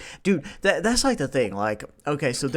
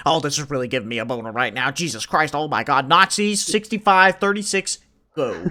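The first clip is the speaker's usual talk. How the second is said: rattled-off rapid mock reaction, getting louder; mock fast YouTuber; 4 dB louder than usual. Mocking a YouTuber who talks fast, rapid gabble. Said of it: "he can jerk off as he speaks quickly".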